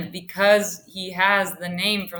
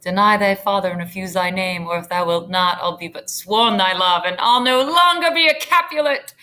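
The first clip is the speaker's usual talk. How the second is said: reciting Juliet; 3 dB louder than usual. Shown as a demonstration. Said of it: "recites Juliet's speech".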